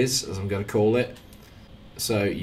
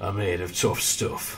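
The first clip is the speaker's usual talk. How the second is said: slow, put-on northern Derby accent. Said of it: "I've gone northern".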